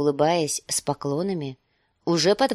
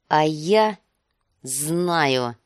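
sharp; 3 dB louder, much slower than usual. Acted. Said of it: "отвечал он резко".

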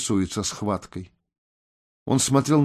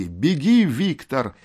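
urgent cry; 4 semitones higher, slower than usual. Acted. Urging a friend to flee.

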